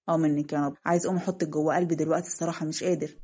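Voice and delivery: a hint of a lovestruck man, low; murmured yearning, mildly acted; lightly voiced smitten man.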